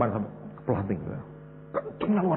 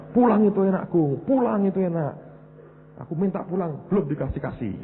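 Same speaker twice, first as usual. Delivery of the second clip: higher, lightly mocking pastor voice; imitating Pak Yusak; 8 semitones higher than usual. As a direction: parody the pastor urging you home. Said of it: "diomongi Pak Yusak". (menirukan Pak Yusak dengan suara tinggi mengejek)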